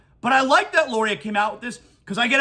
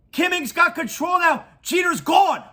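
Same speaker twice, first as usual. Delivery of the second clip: angry shout; 5 semitones higher than usual. Real, not acted. Host shouting to listeners about the Marlins, angry shout. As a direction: yell it like a fed-up fan. Ranting against Jeter.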